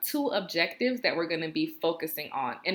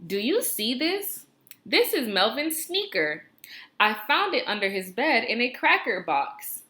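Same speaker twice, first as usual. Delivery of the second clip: higher, brighter expressive read-aloud; exciting voice; 5 semitones higher than usual. Shown as a demonstration. Teacher reads the example aloud, excited. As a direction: read it like the kid is thrilled. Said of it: "I have to read it with my exciting voice".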